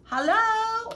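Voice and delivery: high, loud searching call; worried high call. A narrator's reading. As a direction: call out for the missing neighbor. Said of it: "Abel called".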